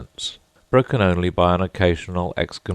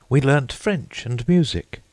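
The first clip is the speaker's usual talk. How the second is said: put-on high girlish voice for Alice; 9 semitones higher than usual. A narrator's reading. Alice telling the Mock Turtle, in a high young voice. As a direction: pitch up, young girl listing lessons. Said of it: "said Alice".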